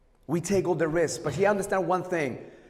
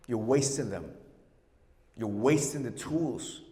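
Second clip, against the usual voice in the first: softer and lower, letting the point sink in; dropped to quiet; 6 semitones lower, 8 dB quieter than usual. Real, not acted. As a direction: pull it right down after the shouting. Drops voice after loud rant.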